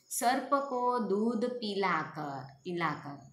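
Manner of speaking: slow correct answer. Shown as a demonstration. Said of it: "ये अशुद्ध वाक्य है।".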